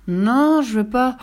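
put-on a child's stubborn protest; whiny refusal from a sleepy boy; refusing child. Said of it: "rétorqua Pierre en bâillant".

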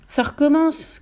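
mild high-pitched cry; understated alarmed shout. A narrator's reading. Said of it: "cria le frère".

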